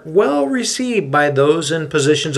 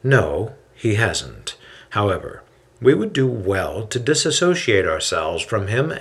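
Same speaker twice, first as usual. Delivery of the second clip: calm and measured. Acted. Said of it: "Hillel raises a hand to quiet the man and continues".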